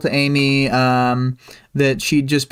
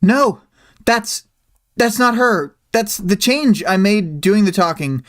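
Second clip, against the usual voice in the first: higher, emphatic protest in character; acted character outburst; 6 semitones higher than usual. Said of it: "She goes".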